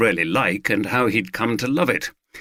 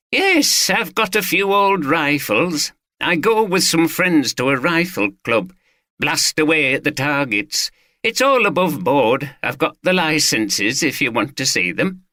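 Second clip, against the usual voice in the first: raised, eager Yorkshire man proudly explaining his rifles; Watson the gun owner; 5 semitones higher than usual. Acted. Owner showing off his rifles to the detective, lightly voiced and eager. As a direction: answer the detective cheerfully, a touch higher.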